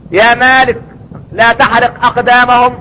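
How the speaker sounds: lightly voiced divine command to the keeper of hell; voicing God's command. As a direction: proclaim it slowly like a divine order. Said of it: "ليه يا رب".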